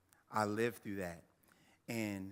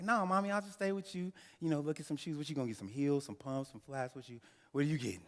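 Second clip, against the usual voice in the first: put-on higher, eager little-boy plea; eager child voice; 5 semitones higher, faster than usual. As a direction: plead like a small kid who won't leave mom's side. Child begging mom in story.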